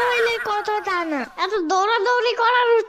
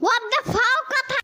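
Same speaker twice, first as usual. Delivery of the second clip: mock outrage; 3 semitones higher, slower than usual. Catchphrase reaction, repeated gag.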